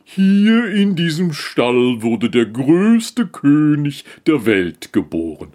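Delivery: langsam, halb geflüstert, dann höher; ehrfürchtig verkünden; feierliches Kamel. Acted. Kamel belehrt den Esel. (Kamel verkündet dem Esel feierlich die Geburt)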